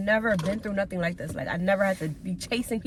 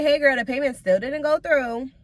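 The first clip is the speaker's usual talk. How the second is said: irritated; 3 semitones higher than usual. Retold or imitated. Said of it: "how I'm thinking it".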